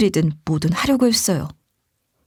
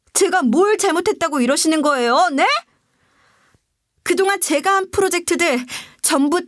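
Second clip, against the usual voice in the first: acted, higher-pitched indignation; angry browbeating; 5 semitones higher than usual. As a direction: confront the boss in pent-up anger, without shouting. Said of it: "너무 화가 나서 윽박지르고 말았어요". (화나서 따지는 말투)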